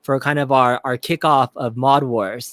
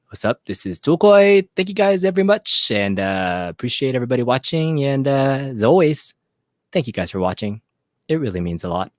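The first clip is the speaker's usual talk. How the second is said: Douglas impression. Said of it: "my best Douglas impersonation".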